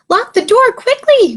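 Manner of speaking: high, urgent little goat voice; bleating goat. A narrator's reading. Frightened goat begging Little Bear to lock up, high bleat. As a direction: bleat it out in a panic. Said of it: "bleated Billy".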